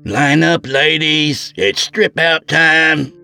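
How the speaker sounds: loud, high barked order; hollering guard. A narrator's reading. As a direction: holler it down the hallway. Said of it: "Deputy Ellis hollered".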